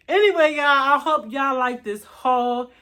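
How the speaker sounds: winded, out of breath after changing clothes; catching her breath between words. Real, not acted. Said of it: "Your girl is tired and out of breath".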